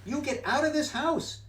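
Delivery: high, loud scolding fish; fish's voice. Acted. Fish in the pot yelling at the cat, high and loud. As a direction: shoo the intruder out, high-pitched.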